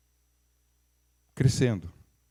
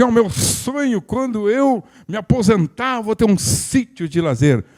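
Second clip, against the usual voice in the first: higher, slow mock-dreamy retirement wish; dreamy retiree quote; 7 semitones higher, 3 dB louder, slower than usual. Preacher mimicking people dreaming of retiring, slow mock-dreamy. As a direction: savour the dream, lightly mocking. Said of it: "tem muita gente que diz assim".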